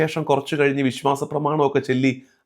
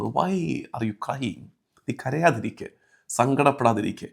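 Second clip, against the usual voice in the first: tender consoling; 5 dB quieter than usual. Acted. Preacher passes heaven's question to grieving listeners, tender consoling. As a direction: drop to a hushed, soothing voice.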